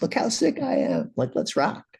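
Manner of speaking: high, silly show-off voice; squeaky mock bragging; mock cocky asshole. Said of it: "like a complete asshole".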